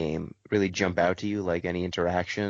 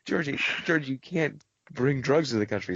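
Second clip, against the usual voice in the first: laughing scolding; 7 semitones higher than usual. Retold or imitated. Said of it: "I'm like".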